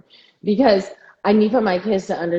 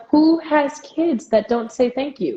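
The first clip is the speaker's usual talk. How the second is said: higher, drawn-out disbelief; incredulous; 5 semitones higher, 4 dB louder, slower than usual. Retold or imitated. Reacting to kids who don't say thank you, incredulous. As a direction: ask it slowly, pitched up in disbelief.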